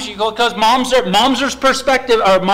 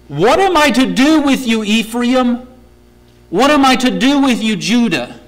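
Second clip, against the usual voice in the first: exasperated plea, louder; frustrated God; 2 semitones higher, 3 dB louder than usual. Acted. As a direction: voice God at the end of his patience. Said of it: "Do you hear frustration in God's voice here?".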